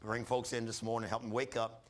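calm, steady prayer voice; closing prayer. Acted. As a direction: pray over the congregation.

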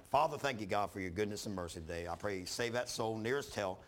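calm, steady prayer voice; closing prayer. Acted. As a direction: pray over the congregation.

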